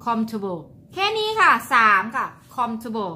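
comfortable said as "คอม-ทู-โบ", cut short; three-syllable comfortable. Shown as a demonstration. (ออกเสียง comfortable แค่สามพยางค์)

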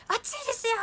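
high, loud cry of warning. Retold or imitated. To staff grabbing the hot pot, a loud warning. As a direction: warn them sharply about the hot pot. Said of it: "鍋を持っていこうとするけ".

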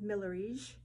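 a light French accent on Millerige. Real, not acted. Presenter showing fabrics attempts an Italian name, French accent. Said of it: "I said it more with a French accent".

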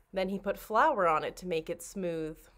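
usual speaking voice

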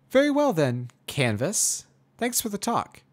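high, loud polite goodbye; awkward mare farewell. Acted. Awkward Twilight leaving.

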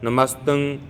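slow, even chant-like prayer reading; level-toned devotional recitation, slowly; scripture recitation. Shown as a demonstration. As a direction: recite in steady measured couplets, drawing out each ending. Reciting scripture in even measured verse.

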